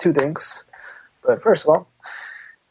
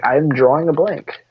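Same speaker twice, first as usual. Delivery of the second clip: slow catchphrase; 3 semitones higher, slower than usual. Acted. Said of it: "That'd totally be a good catchphrase".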